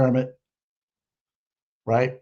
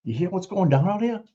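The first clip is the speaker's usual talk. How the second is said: mock conspiratorial whisper; 3 semitones higher than usual. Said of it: "just like".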